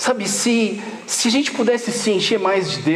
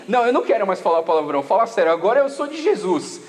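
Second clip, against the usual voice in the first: quick, rushed resolution, lower at the end; hurried mock-solemn promise; fast earnest vow; 3 semitones lower, faster than usual. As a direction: rattle it off like a new convert. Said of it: "eu comecei a falar assim".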